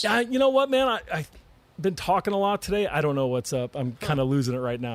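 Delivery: raspy, worn-out voice; hoarse voice. Real, not acted. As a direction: talk through a hoarse throat. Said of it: "your voice is still hoarse".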